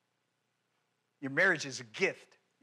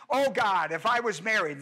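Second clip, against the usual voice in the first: mock whining prayer; 3 semitones higher, 4 dB louder than usual. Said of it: "whine and cry and complain".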